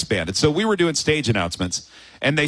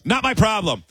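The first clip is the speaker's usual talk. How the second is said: dismissive; 3 semitones higher than usual. Retold or imitated. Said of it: "Into the microphone while looking at us, he goes".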